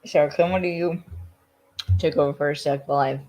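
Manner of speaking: talking through a mouthful; mouth full. Real, not acted. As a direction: speak around a bite of cookie. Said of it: "too much cookie in my mouth".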